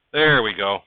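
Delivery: loud satisfied there we go; triumphant. Real, not acted. Builder cheering when the stuck piece finally pops free, loud.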